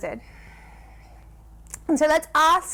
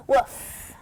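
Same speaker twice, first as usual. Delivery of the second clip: a giggly woof, much higher; laughing woof. Shown as a demonstration. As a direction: bark through a laugh. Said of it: "What sound does a dog make?".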